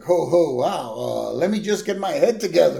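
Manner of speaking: lightly voiced spaced-out hippie. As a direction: play a dazed hippie stalling. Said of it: "then the hippie's like".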